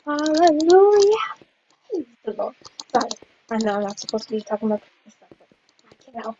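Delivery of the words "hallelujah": loud victory cheer; fangirling. Real, not acted. Player celebrating winning a game, fangirling. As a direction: whoop it out, stretching the last word upward. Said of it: "if you ever wanna hear me fangirl".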